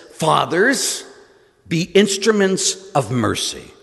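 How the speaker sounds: firmly admonish, without real anger; gentle yell. Retold or imitated. Pope to the gathered confessors, a mild imitated yell. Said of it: "he gently yelled at them".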